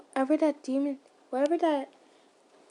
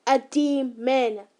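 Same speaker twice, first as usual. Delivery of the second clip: very slow, louder, with weight on each word; slow yell; 5 dB louder, much slower than usual. Acted. The slayer yelling back at the stranger, slow angry repeat. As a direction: drag out the word demon in anger. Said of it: "he yelled out".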